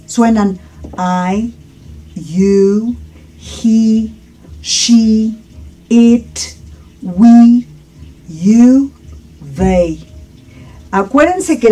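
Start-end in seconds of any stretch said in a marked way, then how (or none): 1.0-10.0 "I, you, he, she" as isolated, held words; each pronoun from "I" to "they" said singly and clearly; pronoun sound demo. Shown as a demonstration. Teacher shows how "I", "you", "they" sound, isolated model words. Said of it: "¿cómo suenan los pronombres?".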